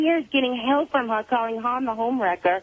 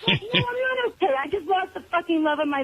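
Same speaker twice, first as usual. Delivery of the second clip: higher, tearful, laughing sadly; upset; 4 semitones higher than usual. Real, not acted. Grieving caller admitting she is not okay. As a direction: voice cracking with a wry laugh.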